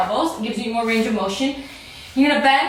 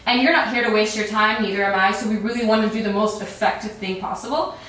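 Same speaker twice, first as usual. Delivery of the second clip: normal talking voice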